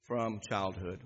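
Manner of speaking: low, soft grieving answer; hushed father. Shown as a demonstration. Preacher voicing the grieving father, low and hushed. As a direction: let it fall low and quiet. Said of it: "Would you say that back to me?".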